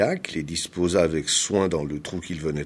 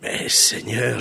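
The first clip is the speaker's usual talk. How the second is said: mild moan; 2 semitones higher, slower than usual. A narrator's reading. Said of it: "gémit Agabunda".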